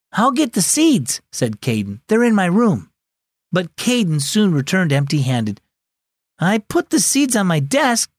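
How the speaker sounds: storyteller voicing each family member; story narration. A narrator's reading. Host reading a family story to children, gently voiced. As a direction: read to kids with light character voices.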